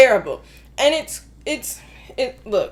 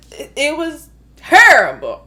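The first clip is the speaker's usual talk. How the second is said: louder, exasperated verdict; loud rant; 8 dB louder than usual. Real, not acted. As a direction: declare it terrible, fed up. Ranting about the movie.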